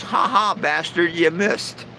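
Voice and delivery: lightly voiced bird, pitched a bit up; bird's mock yell. Bird taunting the preacher who threw the Bible, mild mock yell. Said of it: "The bird ducks and yells".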